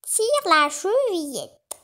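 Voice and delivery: a lightly voiced false grandmother; wolf calling out. A narrator's reading. Wolf in disguise calls the girl in, slow and hushed. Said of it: "s'écria le loup".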